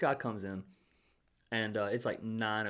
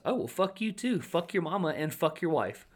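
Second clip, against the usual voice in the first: retold angry comeback; 8 semitones higher, 3 dB louder than usual. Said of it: "And she goes".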